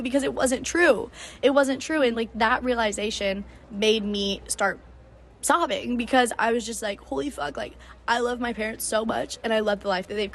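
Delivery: real welling-up emotion; close to crying. Real, not acted. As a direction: hold back tears while recounting it. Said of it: "I'm gonna start crying talking about this".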